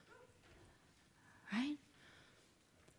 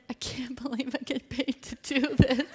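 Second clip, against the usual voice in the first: laughing; 4 semitones higher than usual. Retold or imitated. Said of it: "I burst into tears".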